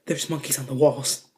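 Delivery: understated eerie statement; hushed ominous announcement. Retold or imitated. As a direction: say it low and quiet after a long pause. Retold friend's eerie announcement after silence.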